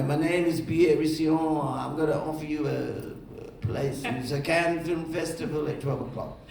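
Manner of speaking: slowing, hammed French-accented offer; bad French accent. Festival man offering a place at Cannes, bad French accent. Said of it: "I see the bad French accent".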